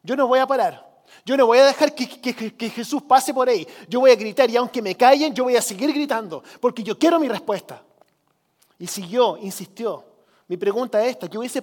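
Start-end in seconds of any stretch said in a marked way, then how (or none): 0.0-7.8 imitated stubborn refusal, bursts of emphasis; insistent. Preacher voices blind man refusing to stop, insistent and emphatic. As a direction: insist like someone who will not be silenced. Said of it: "De insistir y persistir".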